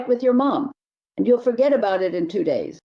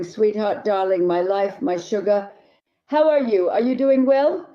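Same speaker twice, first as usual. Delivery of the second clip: overly sweet talk. Shown as a demonstration. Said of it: "cute and sweet. Talk like this".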